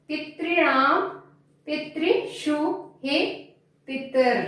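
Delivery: teacher drilling the forms for pronunciation; careful recitation. Shown as a demonstration. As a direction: say every form clearly, one by one. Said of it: "अब हम पहले इसका शुद्ध उच्चारण कर लेते हैं।".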